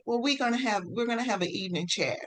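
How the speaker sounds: fading to a soft whisper; soft voice sinking into a whisper; whisper to baby. Retold or imitated. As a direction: hush it to the baby as a secret.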